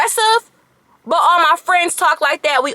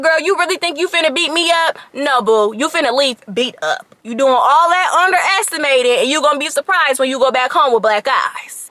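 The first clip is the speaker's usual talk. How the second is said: sassy comeback. Retold or imitated. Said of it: "I would say something like".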